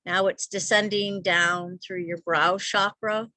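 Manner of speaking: measured meditation voice with long pauses; guided meditation. Real, not acted. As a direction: guide them gently into stillness, leaving space between phrases. Leads a guided visualization.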